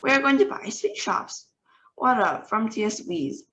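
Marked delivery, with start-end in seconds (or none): 0.0-1.5 higher, excited witches echoing; witch chorus. A narrator's reading. Witches echo their leader, excited and higher. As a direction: squeal it back like a crowd of witches.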